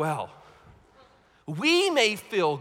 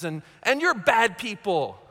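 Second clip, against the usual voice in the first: mock accusing preacher; slower than usual. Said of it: "want us to go around saying".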